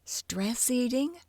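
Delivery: talking through candy; words round a mouthful; mouth full. Acted. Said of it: "shoving fistfuls of candy into his mouth".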